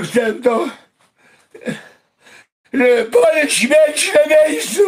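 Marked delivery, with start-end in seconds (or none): 2.7-4.8 shouted curse. Real, not acted. Shouted angry wish.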